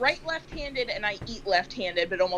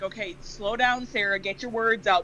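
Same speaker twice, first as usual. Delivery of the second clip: slowing herself down. Retold or imitated. Fast talker coaching herself at work, slowing down. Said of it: "catch myself at work sometimes to be like".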